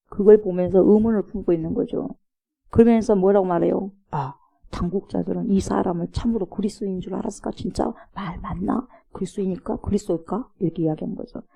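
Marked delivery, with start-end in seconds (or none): 4.1-10.5 sarcastic. Retold or imitated. A townsman sneering quietly about the rulers. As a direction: needle the leaders with a softly sneering question. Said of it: "이런 뉘앙스로 빈정거리고 있는 거죠".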